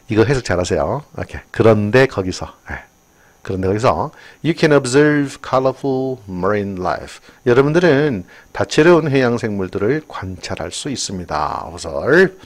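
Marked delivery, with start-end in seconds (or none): 4.5-7.2 very slow, clear English read; slow textbook reading; slow reading aloud. Shown as a demonstration. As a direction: read it out word by word for the class. Reads English sentence aloud.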